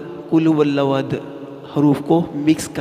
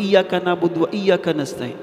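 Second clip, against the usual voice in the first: fast, higher, words run together; hasty; 5 semitones higher than usual. Shown as a demonstration. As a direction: rattle it off in a rush. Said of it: "ہم جلدی میں بولتے ہیں". (جلدی میں تیز تیز)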